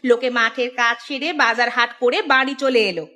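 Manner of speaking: nagging wife. Acted. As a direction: take a lazy husband to task. Wife scolds lazy husband. (স্ত্রীর রাগী বকুনি)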